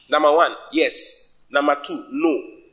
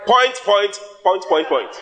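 "Point" repeated as separate, forceful jabs; punchy, evenly struck "point, point, point"; 5 semitones higher, 4 dB louder, slower than usual. Shown as a demonstration. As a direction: hit each "point" hard, starting high and loud. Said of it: "Jesus spoke pain, pain".

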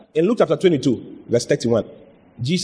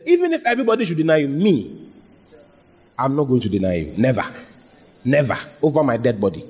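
lightly voiced overconfident Peter; half-hearted swagger of a proud disciple; boastful Peter. Peter's vow retold, boasting.

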